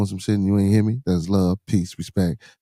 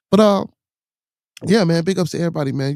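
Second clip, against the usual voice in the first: higher, louder, fast hype; pumped shout-out to everybody; excited shout-out; 8 semitones higher, 4 dB louder than usual. Real, not acted. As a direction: burst into the shout-outs with energy. Hyped shout-out burst.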